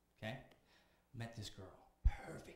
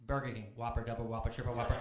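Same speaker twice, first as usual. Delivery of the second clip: deadpan list; 7 dB louder than usual. Retold or imitated. Punchline list.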